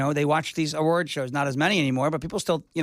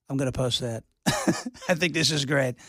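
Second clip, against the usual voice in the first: Trump impression; 4 semitones lower than usual. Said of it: "when he made the decision".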